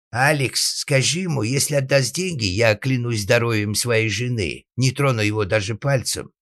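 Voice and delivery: high, insistent plea; pleading father. Acted. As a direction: swear an oath to win the money back. Father pleads through elder son.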